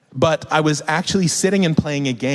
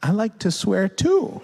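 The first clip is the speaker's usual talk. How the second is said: tender confiding; 7 semitones higher than usual. Acted. Parent confides in crying child.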